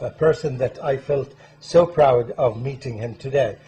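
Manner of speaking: loud, emphatic welcome to viewers; show-opening host introduction. Real, not acted. Host welcoming viewers to the program, loud presenter delivery. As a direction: project a proud introduction of the guest.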